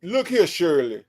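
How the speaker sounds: lightly voiced folksy radio host, laughing through it; Steve Harvey impression. A hint of a radio host lecturing his co-host, amused. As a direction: play the host lecturing Shirley with a chuckle. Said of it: "Say that one more time".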